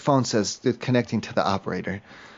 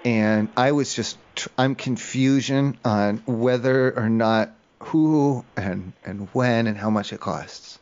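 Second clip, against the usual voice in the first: slow confused; 3 semitones lower, slower than usual. Acted. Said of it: "Okay, listen".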